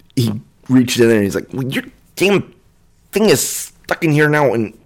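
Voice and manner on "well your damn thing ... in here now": high, squabbling, bickering little humanoid kobold voice. The other kobold reaches in to try it: bickering kobold voice. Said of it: "The other two are very clearly kobolds, / little humanoid, like halfling sized creature just bickering and pointing at a door at the base of the tower. Kind of peek and you're staring at them and watc".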